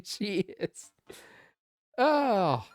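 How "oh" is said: put-on slow, high, drawn-out teen insistence; exasperated teen daughter. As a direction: stretch each word like an annoyed daughter.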